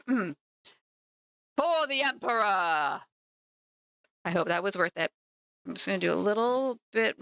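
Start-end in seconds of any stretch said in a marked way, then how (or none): 0.1-3.0 slow shouted battle cry; gruff barked parade orders. Pretend. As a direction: bark it like a zealot soldier. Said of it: "Let me do my best attempt".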